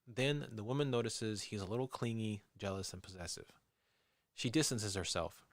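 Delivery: measured documentary storyteller read; true-crime narration. A narrator's reading. Host reads listeners the police profile of a killer, measured narration. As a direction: narrate the case evenly.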